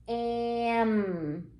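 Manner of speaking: am with the nose pinched shut; plugged nose. Shown as a demonstration. Teacher to child, demonstrating with a pinched nose. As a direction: hold the nose and say am. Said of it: "If I plug my nose like this".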